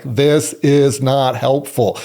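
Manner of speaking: slow, deliberate, word by word; firm out-loud self-talk. Shown as a demonstration. Coach models saying a pattern interrupt out loud, slow and deliberate. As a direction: say each word slowly and distinctly. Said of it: "say it with some energy".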